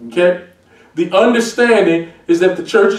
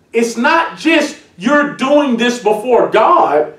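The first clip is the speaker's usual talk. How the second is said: slow preaching shout; slower than usual. Real, not acted. Preacher drives home point.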